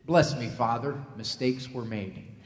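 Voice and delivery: a politician dodging blame; politician's confession. Retold or imitated. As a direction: politician confessing to a priest, mock solemn. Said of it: "confession like the politicians".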